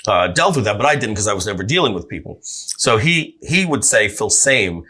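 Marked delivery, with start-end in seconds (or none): 4.1-4.8 Phil Same said as English same; anglicized name. Shown as a demonstration. Dad simplifying the name for customers. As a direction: Phil Same, rhymes with game. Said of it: "just to make it easier".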